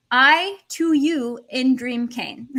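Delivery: slow, emphatic word-for-word rendering; slow word-by-word translation. Shown as a demonstration. Spelling out literal word order.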